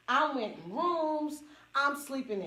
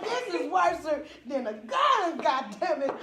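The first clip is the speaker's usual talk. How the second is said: louder, higher pained complaint; complaining loudly; 4 semitones higher, 5 dB louder than usual. Retold or imitated. Speaker to himself, loud pained complaint. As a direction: complain about the rope hurting. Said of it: "I said".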